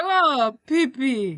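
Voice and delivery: put-on Russian accent on a little coo. She sees the restored statue, imitated Russian accent. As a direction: imitate a delighted Russian lady. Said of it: "can you say it in her accent".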